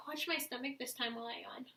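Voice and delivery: soft whisper while demonstrating. Real, not acted. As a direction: whisper it under the breath. Whispers during yawn demo.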